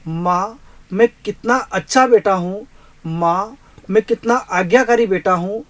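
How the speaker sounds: put-on drunk-party son calling his mother, pleading; a son insisting he is not drinking. (माँ को पुकारता बेटा)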